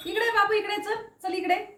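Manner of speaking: high, sing-song call to a pet; coaxing the dog. Real, not acted. Owner calling her dog Bruno to come, high coaxing.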